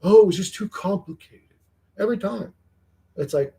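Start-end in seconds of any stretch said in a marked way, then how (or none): 0.0-2.5 mock evasive tripper.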